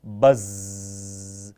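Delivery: बज़ said low and drawn out, like a buzzing insect; buzzing sound. Shown as a demonstration. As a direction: buzz it like a fly round a tubelight. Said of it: "B U double Z". (बज़ को धीमे, भिनभिनाती आवाज़ में)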